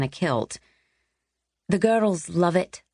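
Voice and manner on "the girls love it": gushing. Acted. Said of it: "Rosalind had gushed".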